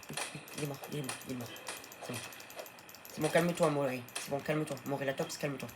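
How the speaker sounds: calm the frightened dino; gentle hush; soothing pet. Real, not acted. Soothing pet dino after fight.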